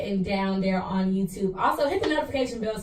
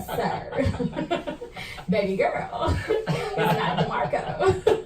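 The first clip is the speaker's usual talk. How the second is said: laughing; 5 semitones higher, much slower than usual. Retold or imitated. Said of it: "I be like".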